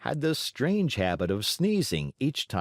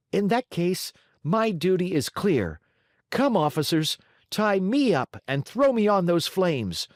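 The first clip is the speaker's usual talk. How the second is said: put-on high, ringing puppet boy, much higher; piercing brave cry; 9 semitones higher than usual. A narrator's reading. Pinocchio offering himself to the flames, a piercing brave cry. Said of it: "said in a piercing voice".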